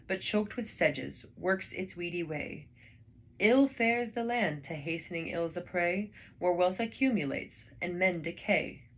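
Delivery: slow, measured verse reading; poem recitation. Acted. Reading Goldsmith's lament for the deserted village, slow and solemn. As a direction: let each line of the poem breathe slowly.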